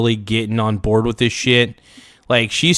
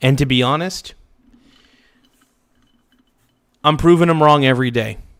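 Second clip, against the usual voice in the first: choked up, emotional, close to crying; 2 semitones higher than usual. Recalling people who called the speaker a loser, about ready to cry. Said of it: "I'm about ready to cry".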